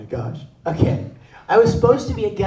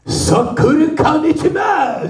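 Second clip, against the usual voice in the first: high, slow, hammed-up yell; mock Japanese chef's shout; 7 semitones higher, 4 dB louder than usual. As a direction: bellow it like an irate sushi chef. Sushi chef yells in Japanese.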